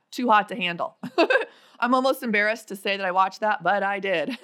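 laughing while admitting it; embarrassed laugh through the words. Real, not acted.

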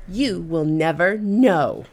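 put-on childish retort. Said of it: "just like a five-year-old".

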